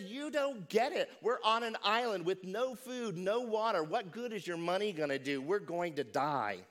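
high, loud frantic pleading; exasperated panicked shout. Retold or imitated. Castaway shouting at his calm friend, frantic shout. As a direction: shout at him in disbelief and panic. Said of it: "the man began to shout".

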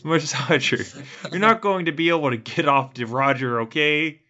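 light mock Chicago-Canadian accent; pseudo Chicago-Canadian accent. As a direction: put on a loose Chicago-slash-Canadian twang. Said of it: "resorting to this weird pseudo Chicago slash".

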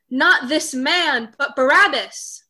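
loud, slow shout of a crowd. Acted. Crowd shouting to Pilate for Barabbas, loud slow shout. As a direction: call it out slowly for Barabbas. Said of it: "They shouted in reply".

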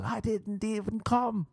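high, drawn-out mock scream without real volume. Screaming at people who mock him, high mock scream. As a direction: act out a strained, high-pitched protest. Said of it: "And I'd scream at people".

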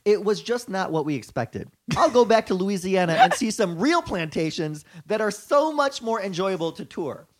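lightly voiced white-girl reviewer, punched words. Reading a tourist's plantation review to co-hosts, lightly put-on white girl. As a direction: read the complaint as a mock white girl. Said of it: "in my white girl vo-, voice".

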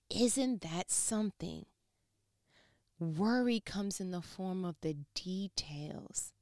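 slow whispered revelation; hushed emphasis. Acted. Preacher stresses worry hides in details, slow whisper. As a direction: draw them in with a slow whisper.

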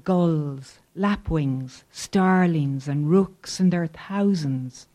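measured, deliberate poem recital; poetry reading. Acted. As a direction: read each line like a spoken poem. Reads his poem aloud.

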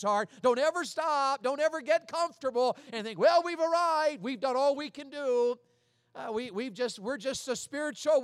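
loud pleading preacher's call; urgent exhortation. Retold or imitated. Paul urging the church at Corinth, rising exhortation.

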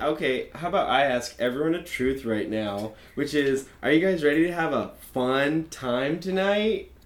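suave host voice. Acted. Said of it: "I say it just like that".

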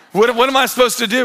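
helpless, quick mock protest; mild retold panic. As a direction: act out a flustered new dad. New father retold questioning hospital nurse.

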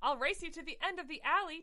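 a kitten daring a race; squeal. Acted. Tinkerbell challenging Mistopheles to a race, squealing. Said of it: "Tinkerbell squealed and ran".

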